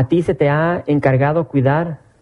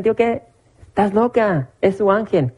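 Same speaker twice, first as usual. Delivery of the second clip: scoffing disbelief; 5 semitones higher than usual. Retold or imitated. Brothers scoff at the girl.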